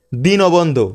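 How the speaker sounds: দীনবন্ধু repeated as "di-no-bon-dhu"; correct pronunciation. Shown as a demonstration. Teacher repeating the correct form for students, দীনবন্ধু as dino-bondhu. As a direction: sound the o between দীন and বন্ধু. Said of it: "but উচ্চারণ কি হবে?".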